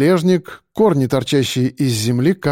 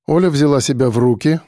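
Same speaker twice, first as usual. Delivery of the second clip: ordinary delivery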